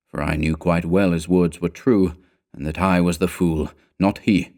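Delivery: plain reading voice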